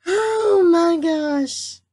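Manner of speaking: slow, high, breathless from laughing; laughing oh my gosh. Real, not acted. Recovering from laughter, telling viewers. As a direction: gasp it out through laughter.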